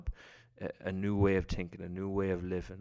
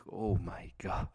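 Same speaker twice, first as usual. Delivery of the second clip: breathless whisper of amazement; awed whisper; whispered disbelief; slower than usual. Retold or imitated. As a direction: whisper it, stunned. Stunned by unexpected praise.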